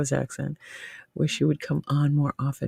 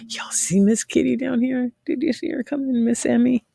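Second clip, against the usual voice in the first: talking to the cat; 9 semitones higher than usual. Real, not acted. Talking to her cat on camera.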